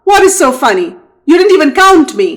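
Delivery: quick, rising demanding questions; suspicious annoyed alligator. Acted. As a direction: press him on why he laughs.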